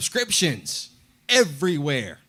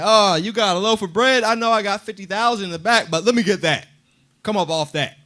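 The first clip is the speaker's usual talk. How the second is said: higher, louder, jeering grab at the bread; a swaggering thief's taunt; mocking greedy taunt; 4 semitones higher, 5 dB louder than usual. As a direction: sneer like a bully helping himself. Greedy townspeople taunting a trader.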